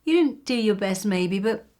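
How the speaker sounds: high bright lift on "Well", then loud encouragement; peppy consoling cheer; upbeat cheerleader. Retold or imitated. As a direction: cheer them on after a loss. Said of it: "They go".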